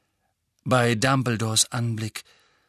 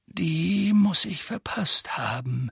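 cheerful; 6 semitones higher, slower than usual. Acted. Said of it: "sagte Dumbledore vergnügt".

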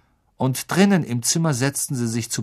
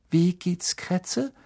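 slow, careful and higher; gentle question; 8 semitones higher, much slower than usual. Acted. Hermine gently asking Ron about his rat, careful. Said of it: "fragte Hermine behutsam".

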